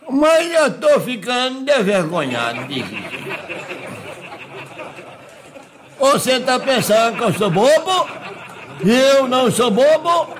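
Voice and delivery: rustic Minas countryman standing up for himself; naive country bumpkin, indignant. Acted. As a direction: play the offended simple countryman. Plays a naive countryman being coached.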